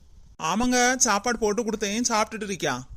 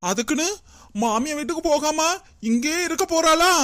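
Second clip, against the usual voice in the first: alarmed; 5 semitones higher than usual. Acted. Fearing she'll stay.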